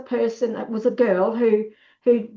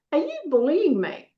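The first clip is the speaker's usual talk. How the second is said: higher-pitched, wide-eyed mock innocence; innocent question; 5 semitones higher than usual. Shown as a demonstration. Target naming it to a bully, innocently asking. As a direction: ask it as if guileless. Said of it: "with this sort of innocent look".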